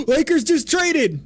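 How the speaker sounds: loud, high breaking-news call; excited. Real, not acted. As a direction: blurt out the big news. Reacting to a breaking trade.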